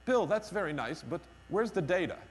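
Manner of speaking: lightly imitated British accent; a colleague's polite challenge with a hint of British accent; nice British accent. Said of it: "in a nice British accent".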